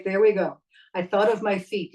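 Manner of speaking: settled, grounded authority; grounded, authoritative. Shown as a demonstration. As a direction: think of your feet and speak from the ground. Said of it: "Did you hear what happened?".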